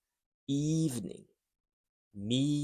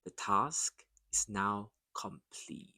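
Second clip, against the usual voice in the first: whispered; 3 semitones lower than usual. Shown as a demonstration. Repeat drill, whispered.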